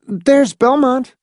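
very high, slow character voice. A narrator's reading. David Pritchett points out the town, high and slow. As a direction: point it out slowly in a high put-on voice. Old man voiced in story.

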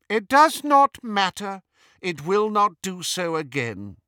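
high, loud, imperious dismissal; cool. A narrator's reading. Disguised Hermione brushing off an offended Death Eater, coolly. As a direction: coolly close the matter in a high witch voice. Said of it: "said Hermione coolly".

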